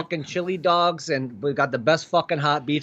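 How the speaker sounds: emphatic, hammed-up Chicago rant; thick comic Chicago accent. Shown as a demonstration. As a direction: talk like a Chicago hot-dog die-hard. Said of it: "We do have the Chicago accent".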